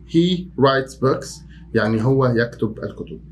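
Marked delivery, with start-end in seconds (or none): 0.1-1.4 very slow level repeat; slow plain repetition. Shown as a demonstration. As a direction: say it again slowly.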